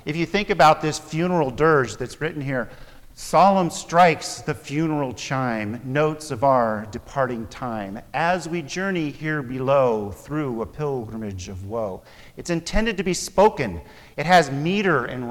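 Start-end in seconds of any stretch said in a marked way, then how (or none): 3.1-12.0 slow, measured poem reading; solemn recitation. Shown as a demonstration. Preacher to class, slow solemn poem recital. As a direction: recite it like a funeral chime.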